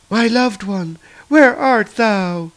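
slow, lofty archaic speech. Acted. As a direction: draw it out, slow and otherworldly. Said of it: "her speech, it sounds so archaic".

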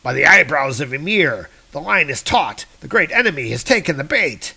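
a blustering giant barking at his crew; giant commanding. Acted. Grunthrock orders the giants to haul the rope, blustering. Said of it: "He's like".

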